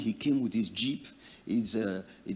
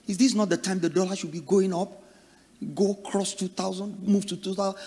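higher, agitated complaining about the dollar; indignant rich man; 5 semitones higher than usual. Acted. Preacher playing the rich man fretting over the naira rate. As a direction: rant like a greedy man cheated of profit.

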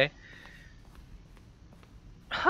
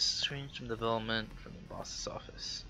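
soft whispered reading; whispering; 8 dB quieter than usual. Real, not acted. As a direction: whisper it to yourself. Reading aloud to self.

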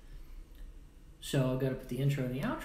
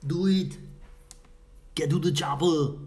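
movie quote; 2 semitones higher, 8 dB louder than usual. Retold or imitated. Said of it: "movie quote while plugging in power".

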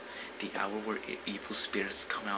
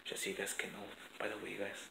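whispering; 9 dB quieter than usual. Real, not acted. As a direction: keep it down, whispered. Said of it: "I'm whispering because my parents are, like, still asleep".

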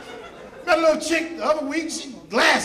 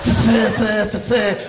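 stuttering; 4 semitones lower, 3 dB quieter, slower than usual. Retold or imitated. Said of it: "She stuttered".

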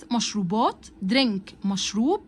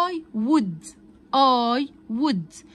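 I would said in full, slightly louder; 4 dB louder, much slower than usual. Shown as a demonstration. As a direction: spell out I would slowly. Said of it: "احنا قلنا I'd ديت اختصار ل". (نطق I would كاملة)

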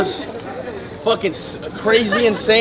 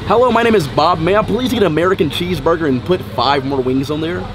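put-on American accent; 3 semitones lower than usual. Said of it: "this is the American accent".

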